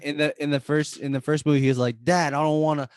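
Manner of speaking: whiny son begging his dad; a lightly voiced pleading son; Greek brother impression. Imitating the movie son telling his dad he won't run the restaurant. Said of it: "that's a good impression".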